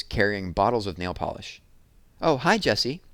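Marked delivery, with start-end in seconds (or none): 2.2-3.0 high, loud breezy hello; girly greeting. Acted. Megan greeting Jessie at the door, high and loud. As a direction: sing out a hello.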